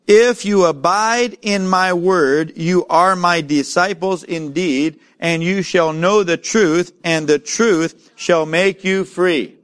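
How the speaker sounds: slow, weighty Bible reading; preacher reading a verse to the church; scripture reading. Acted. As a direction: lay each word of the verse down slowly.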